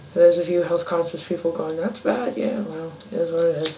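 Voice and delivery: talking around a lit cigarette; words round a cigarette between lips; cigarette in mouth. Real, not acted. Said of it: "let me light my cigarette".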